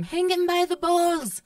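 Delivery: high, slow mock yell at the screen; hammed-up outburst from the other room; mom yelling at the TV. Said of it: "I would hear my mom".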